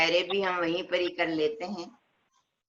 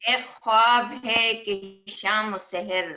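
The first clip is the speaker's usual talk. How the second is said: poetry reading at a mushaira; ghazal recitation. Acted. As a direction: recite it as an Urdu couplet, lingering on the refrain.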